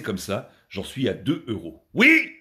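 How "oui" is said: high, loud little victory yell; hammed-up joy at a tiny win; mock triumphant cheer. Real, not acted. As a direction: celebrate two euros like a jackpot. Cheering about earning two euros.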